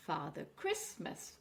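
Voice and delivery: "Christmas" said slowly, stress on Chris; slow "Father Christmas", leaning on the Chris. Shown as a demonstration. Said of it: "we are stressing on the cri".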